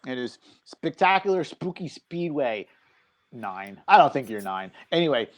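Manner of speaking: talking while crunching snacks; crunching chips. Real, not acted. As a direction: speak through crunchy chips. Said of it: "sorry if I'm crunching".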